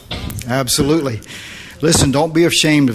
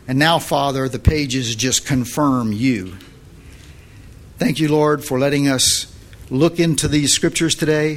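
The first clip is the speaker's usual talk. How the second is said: steady, unhurried prayer voice; closing prayer. Acted. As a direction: pray over the listeners, calm and grateful.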